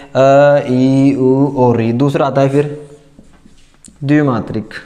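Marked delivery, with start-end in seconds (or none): 0.1-1.9 slow listing. Shown as a demonstration. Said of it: "कौन कौन से आते हैं".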